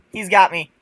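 rising panicked high-pitched yells; panicked shriek. Real, not acted. Caught by hunter in game.

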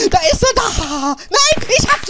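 high-pitched panicked yelp; playful alarm. Pretend. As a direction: gasp and squeal in game panic. Suddenly gets the potato.

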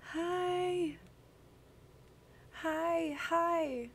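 a high, sung-out hi; bright hi. Real, not acted. Streamer greeting a new viewer, high and delighted.

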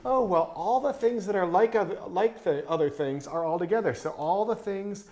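a hint of an earnest first grader; little kid explaining. First grader describing the idea store, lightly voiced child. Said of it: "The kid goes".

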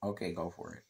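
soft, voiceless whisper; whispered aside. Real, not acted. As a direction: whisper it under your breath. Hushed aside during live stream.

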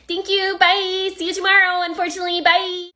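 high customer-service farewell; fake cheery. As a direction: chirp it insincerely. Fake-cheery barista sees off customer.

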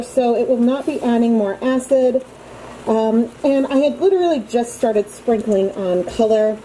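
muffled behind a respirator mask. Real, not acted. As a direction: speak through a dust mask, muffled. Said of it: "So excuse me if I sound more muffled".

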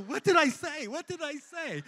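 frantic asking. Retold or imitated. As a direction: ask it again and again, shaken and stunned. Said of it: "And I'm going".

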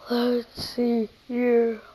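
talking through a yawn. Real, not acted. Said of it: "Sorry, I'm ya-, yawning".

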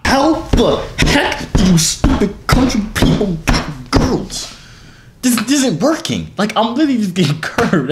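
high-pitched frustrated rant; exasperated. Real, not acted. Complaining that strangers keep rejecting him, exasperated. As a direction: let frustration push the voice right up. Fed up after many rejections.

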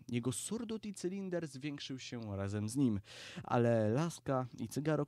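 plain reading voice

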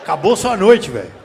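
loud teasing jab; a loud mocking verdict; loud roast. Real, not acted. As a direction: call it out loud to the crowd. Roasting audience member loudly.

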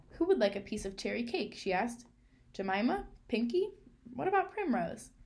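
girl chattering to her dolls at a pretend party; chattering happily. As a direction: play the cheerful tea-party hostess. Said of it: "chattering happily as she did so".

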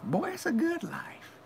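high, slow whisper; slow contented whisper. Real, not acted. Whispered aside.

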